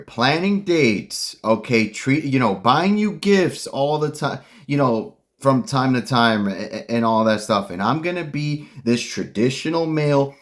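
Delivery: a touch of mock condescension, lightly voiced; condescending tone. Mocking a modern woman's condescending tone to men, mildly. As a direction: parody a smug promise, only a little put on. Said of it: "I hear that frickin' condescending tone".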